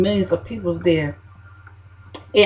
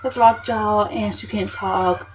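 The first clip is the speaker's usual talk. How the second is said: office lady's voice; 3 semitones higher, 5 dB quieter, slower than usual. Retold or imitated. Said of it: "she's like".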